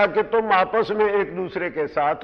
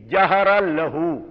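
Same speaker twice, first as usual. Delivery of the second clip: slow citation; 4 dB louder, much slower than usual. Shown as a demonstration. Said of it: "اب یہ محاورہ ہے".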